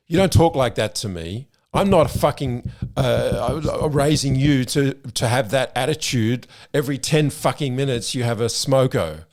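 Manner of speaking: loud furious rant at his son, climbing; angry father yelling. Retold or imitated. Father yelling at teenage son over the pool joke, furious and loud. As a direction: bark it out like an outraged dad. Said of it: "He said".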